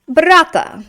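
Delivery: brata said high and clear, stressing the final a; teacher models brata with the new ending a. Shown as a demonstration. Teacher demonstrates the genitive to class, clearly. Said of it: "Brat is just gonna go to".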